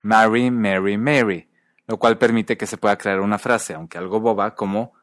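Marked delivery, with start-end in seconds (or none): 0.0-1.5 "Marry, Mary, Mary" as marry, merry, mairy; three distinct vowels. Shown as a demonstration. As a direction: open a, short e, then longer ay in "Marry, Mary, Mary". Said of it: "se mantienen distintas".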